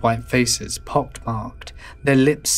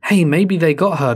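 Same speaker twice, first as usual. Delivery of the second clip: said at normal speed, slightly raised; sudden suggestion; 4 semitones higher, 4 dB louder than usual. Acted. Ryan guessing who took her, sudden suggestion. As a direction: toss it out as a new idea. Ryan's first suggestion in dialogue.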